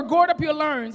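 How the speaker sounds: country accent on "gird up your loins"; "gird" and "loins" with rounded, r-coloured country vowels. Real, not acted. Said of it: "that's my country accent".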